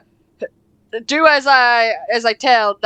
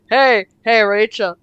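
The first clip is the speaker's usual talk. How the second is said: mock flirtatious; 3 semitones lower than usual. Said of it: "so flirtatiously".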